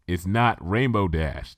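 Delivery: slow, level, unimpressed; deadpan correction; said flatly. Acted. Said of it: "said flatly".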